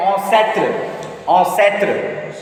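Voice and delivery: "ancêtre" with nasal opening and open middle vowel; French pronunciation. Shown as a demonstration. Teacher explaining the vowels step by step, "ancêtre" as French pronunciation. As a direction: say "ancêtre" carefully, falling onto the final tr. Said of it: "Then a will be pronounced a".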